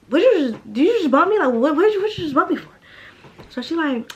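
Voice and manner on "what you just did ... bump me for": higher, louder challenge, voice pushed up; demanding answers from the girl who bumped her, angrily; angry confrontation. Retold or imitated.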